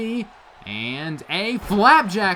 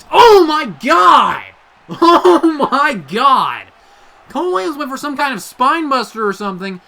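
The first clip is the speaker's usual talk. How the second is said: high, loud, stunned yelling; screaming excitement; 8 semitones higher, 10 dB louder than usual. Real, not acted. Commentator stunned by a DDT through the table, screaming excitedly. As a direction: lose it over the big spot, shouting. Table spot in wrestling match.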